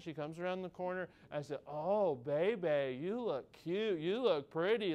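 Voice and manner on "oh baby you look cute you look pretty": slow, swooping coo; retold fawning over a little girl; doting dad. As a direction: puff up a child with drawn-out praise. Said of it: "we just try to puff her up".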